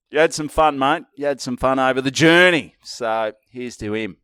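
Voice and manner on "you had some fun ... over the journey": heartfelt tribute. Real, not acted. Tribute addressed to dead friend.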